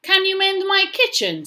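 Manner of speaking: very high, loud storybook witch. A narrator's reading. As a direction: pitch it way up as a witch calling out. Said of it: "said the witch".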